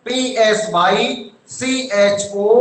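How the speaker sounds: letters spaced and very slow; slow spelling. Shown as a demonstration. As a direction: dictate each letter for the class to copy. (धीरे-धीरे spelling लिखवाते हुए)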